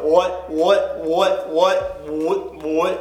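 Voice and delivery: series of quacking whats; duck call. Shown as a demonstration. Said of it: "It's more like that".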